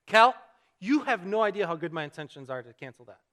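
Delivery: mock exasperation, punched at the start; mildly frustrated. Husband defending his good intentions to cancel, mildly frustrated. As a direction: protest to a wife, mildly worked up. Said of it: "I was so frustrated".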